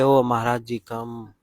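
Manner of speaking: respectful, honeyed invitation; polite welcome. Retold or imitated. Addressing the guru with polite respect. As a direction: invite a saint sweetly. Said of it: "We say".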